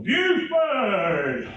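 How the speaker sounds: a loud, high call of the name; big booming call. Acted. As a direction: call him out across the throne room. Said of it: "a big voice go".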